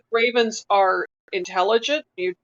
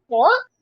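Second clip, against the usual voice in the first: short, sharp bark, a bit higher and louder; raven bark; 5 semitones higher, 4 dB louder than usual. A narrator's reading. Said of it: "it made a kind of a".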